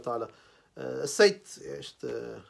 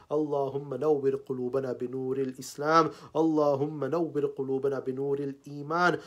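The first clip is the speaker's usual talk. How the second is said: flowing Arabic dua in steady, repeating cadences; supplication prayer; faster than usual. Real, not acted. Preacher prays to Allah for all the believers, intoning a flowing supplication. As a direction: intone each plea to God on an even, rolling line.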